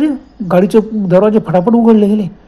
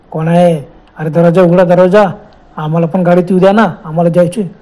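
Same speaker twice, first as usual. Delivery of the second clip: pounding yell. Acted. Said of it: "ओरडायला लागले".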